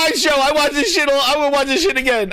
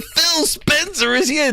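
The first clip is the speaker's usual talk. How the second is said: lightly imitated drawn-out announcement; Major Nelson; slower than usual. Streamer quoting the host announcing a guest, mildly mock-announcing. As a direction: stretch it out like a mock event host. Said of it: "what did Major Nelson say?".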